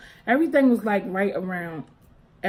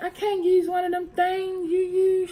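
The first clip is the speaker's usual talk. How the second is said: put-on childlike voice pitched up high; high child voice; 10 semitones higher than usual. Girl telling mom about pads in a high child voice. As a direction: say it like a confused little girl. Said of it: "I was like".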